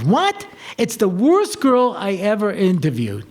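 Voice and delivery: mock disbelief at the very suggestion; incredulous. Seminary head reacts to a candidate's name, incredulous. Seminary head's shocked reply.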